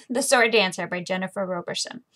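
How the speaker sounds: breathy giggled retake of the title; sheepish laughing retake; laughing whisper. Real, not acted. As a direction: whisper it through a laugh after the slip. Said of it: "oops, maybe if I had it in frame".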